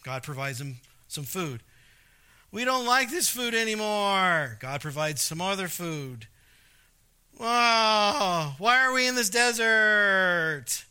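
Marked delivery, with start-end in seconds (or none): 2.5-4.6 shouted mock whine about the food; whiny complaint. Israelites grumbling at God, a whiny shout. 7.4-10.8 mock crying wail, slow; whining wail. Israelites whining to God in the desert, mock wail.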